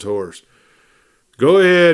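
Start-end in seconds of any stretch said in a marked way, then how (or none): 1.4-1.9 friendly, louder, higher send-off; deputy letting Rathburn go, smiling. A narrator's reading. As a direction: wave him on with a smile. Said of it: "he said, smiling".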